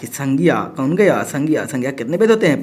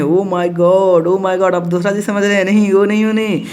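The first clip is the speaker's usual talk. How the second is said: mock shock. Mock shock at naughty misreading.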